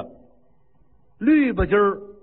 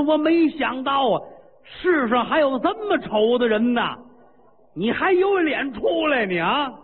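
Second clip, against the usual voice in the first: mocking taunt; 6 semitones higher than usual. Queen taunting the ugly king.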